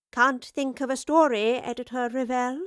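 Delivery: playful teasing tone; a light mocking jab. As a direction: tease her lightly. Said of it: "the professor teased".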